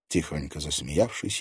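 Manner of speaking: plain reading voice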